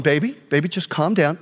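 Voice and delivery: low, gentle calming words; soothing wife. Retold or imitated. Wife soothing her angry husband.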